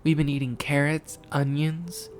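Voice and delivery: high-pitched little cartoon pig; high cartoon voice, last word drawn out; Peppa. A narrator's reading. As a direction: answer in a high, piping child-character voice. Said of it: "Peppa said".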